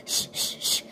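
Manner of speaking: repeated sharp shushes; hushing. Retold or imitated. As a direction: act out shushing a noisy child. Nanny hushing the screaming child.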